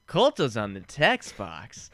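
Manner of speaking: slow, pointed mock reading; exaggeratedly deliberate read-aloud; like a dick. Shown as a demonstration. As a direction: read it out slowly, being a jerk about it. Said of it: "I'm doing it like a dick".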